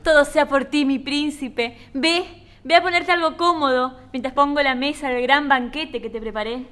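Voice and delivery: sweetly submissive ad housewife, lightly played; mildly theatrical devoted wife; doting housewife. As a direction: greet him like an adoring commercial wife. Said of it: "la próxima un poquito más sumisa".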